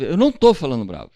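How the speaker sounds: loud, fast, snappy denial; mock angry denial. Spouse denying an angry tone, loud and fast. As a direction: bark back that you're not angry. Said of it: "esse o seu tom de voz".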